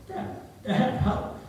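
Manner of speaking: high, mock cry for help; calling for help. Preacher as his boyhood self calling Dad, mock plea. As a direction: imitate a stuck child calling out. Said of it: "I called out for".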